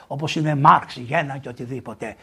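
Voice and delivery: ordinary talk, nothing marked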